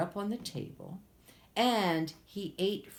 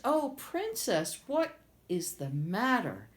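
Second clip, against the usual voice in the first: 1 high frog voice; 5 semitones higher than usual. Acted. Frog speaks to princess.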